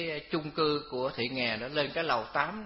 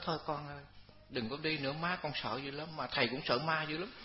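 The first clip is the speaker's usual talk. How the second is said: gentle coaxing; 7 dB quieter than usual. Retold or imitated. Monk gently coaxing the ghost.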